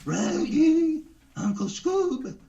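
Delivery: goofy cartoon dog mangling words; Scooby-Doo. Guest doing a cartoon dog for the hosts, high and goofy. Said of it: "Scooby-Doo".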